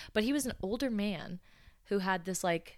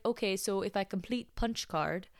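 imitated Russian-accented customer; thick Russian accent; 2 semitones higher than usual. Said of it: "with a thick Russian accent".

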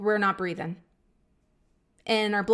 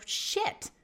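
whispered shit; 6 dB quieter than usual. Pretend. Imagined future self.

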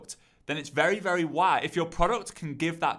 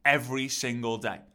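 upbeat host intro. Shown as a demonstration. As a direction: open the live with energy. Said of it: "so yours could be".

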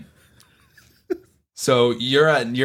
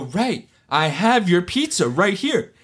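exasperated emphasis; 7 semitones higher, slower than usual. Retold or imitated. Exasperated retold plea to friend.

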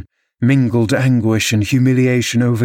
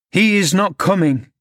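higher-pitched, insistent assurance; urgent interjection; 8 semitones higher than usual. A narrator's reading. Servant interposing with a lie, urgent. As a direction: cut in to stop him.

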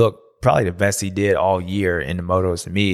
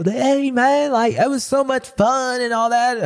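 much higher, slow, sing-song giddy brother; mock cheerful winner; slower than usual. Little brother gushing to beaten brother, high giddy mock. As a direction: play the oblivious happy kid brother.

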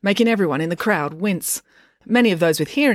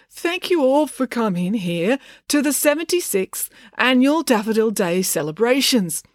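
slow, higher-pitched read speech; reading off paper; 6 semitones higher than usual. A narrator's reading. Dad opens the celebrations, reading off paper. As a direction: recite the welcome from a prepared script. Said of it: "reading off a piece of paper".

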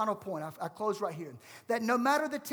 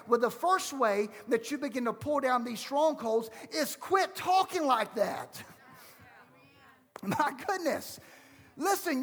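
impassioned preaching; 4 semitones higher than usual. Real, not acted. Preaches against excuses.

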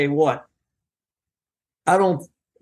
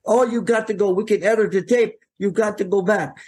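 imitating a panicked agent, higher pitched; mock alarm in a higher voice, "what are you doing"; 6 semitones higher than usual. Agent Pat insists he return.

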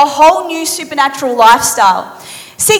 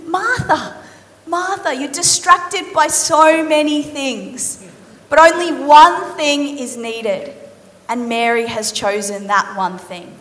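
gentle Jesus; 5 dB quieter, slower than usual. Acted. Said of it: "looks back into her eyes and he says".

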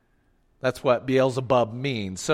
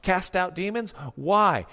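sarcastic; 2 semitones higher than usual. Retold or imitated. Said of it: "I think with some sarcasm".

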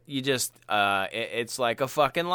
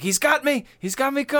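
panicked cry; 13 semitones higher than usual. Retold or imitated. Imitating the officer getting caught, high panicked cry. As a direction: squeal it like he's being grabbed. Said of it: "But he's like".

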